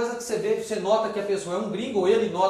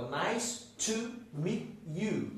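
"Nice to meet you" very slow, word by word; slow pronunciation demo; 9 dB quieter, much slower than usual. Shown as a demonstration. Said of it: "sempre com um acentinho na sílaba tônica". ("Nice to meet you" bem devagar, palavra por palavra)

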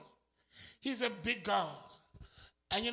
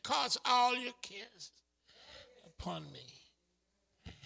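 gentle divine promise; 7 dB quieter, much slower than usual. Acted. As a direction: soothe them with God's words. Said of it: "He said".

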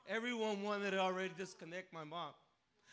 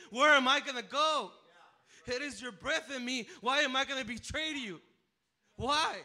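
loud, high, desperate crying out to God; retold desperate cry to God; pleading prayer; 4 semitones higher, 8 dB louder than usual.

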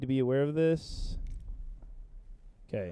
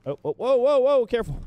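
sharp playground warning; 7 semitones higher, 5 dB louder than usual. Real, not acted. Warning teammate in danger.

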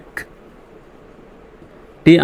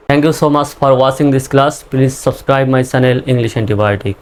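slow sign-off; much slower than usual. Acted. Closing sign-off.

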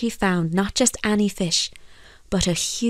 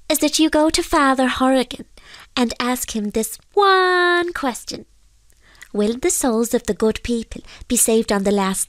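solemn fairy; 4 semitones higher than usual. Acted. Fairy sends fisherman to question priest, solemn. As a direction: make a grave request as a fairy. Fairy character states his request.

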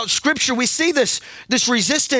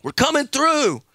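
rallying call; 3 semitones higher than usual. Shown as a demonstration. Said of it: "If you talk back to me, I won't yell so much".

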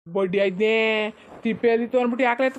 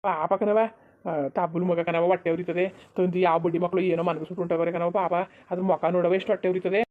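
sad pity; 6 semitones lower than usual. Acted. Pleading for the abandoned baby, low and sad.

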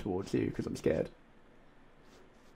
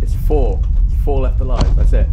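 excited shout; 2 semitones higher, 16 dB louder than usual. Real, not acted. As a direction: shout the news in disbelief. Realizes final four alive.

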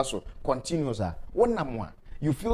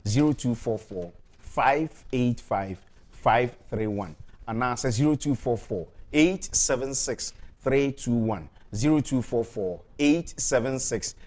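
slow number dictation; 5 semitones lower, slower than usual. Acted. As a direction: spell out each digit slowly and clearly. Dictating phone numbers on air.

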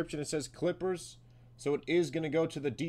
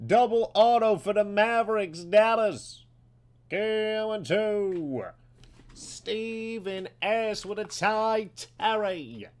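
loud, high card-break hype call; arena announcer with drawn-out names; excited announcer; 6 semitones higher, 8 dB louder, slower than usual. Acted. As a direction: belt out the big hit. Card breaker announces big hit.

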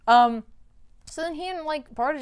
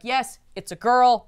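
louder, slower, savoring the news; elated; 3 semitones higher, 6 dB louder than usual. Retold or imitated. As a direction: announce the girl with mild joy. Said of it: "Bart is elated".

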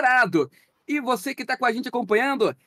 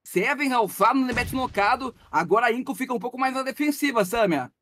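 live play-by-play. Acted. Casts the match live.

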